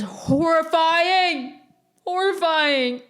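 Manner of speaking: high drawn-out mock-horrified wail; mock horror. Podcaster dreading turning nineteen, mock horror. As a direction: drag it out high in playful dread.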